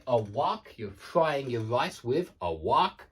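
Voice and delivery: American "wok" with an open ah; slow sample sentence, American-style "wok"; American pronunciation. Shown as a demonstration. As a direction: attempt an American vowel on "wok". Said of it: "But in British English".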